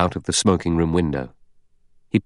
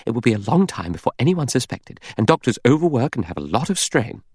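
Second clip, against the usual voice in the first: higher-pitched, insistent arguing; persistent; 6 semitones higher than usual. Acted. Vera pressing her case against the doctor, insistently. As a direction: press the point, pitch lifted. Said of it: "Vera persisted".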